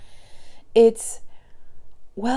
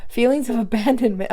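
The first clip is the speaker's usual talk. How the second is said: rereading it fast, a bit higher, flustered; 4 semitones higher, faster than usual. Real, not acted. Rereading the card for viewers, fast and flustered. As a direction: rush "Feelings of abandonment" out, startled. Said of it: "I'm flipping out".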